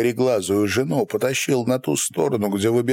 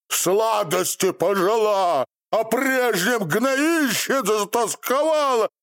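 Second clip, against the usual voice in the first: raging curse. A narrator's reading. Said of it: "вослед кричал ей".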